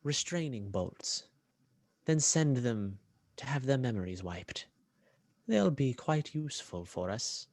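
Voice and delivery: measured, deliberate order; lightly voiced villain giving orders; commanding villain. Villain ordering troops about the droids, measured command. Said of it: "and he says".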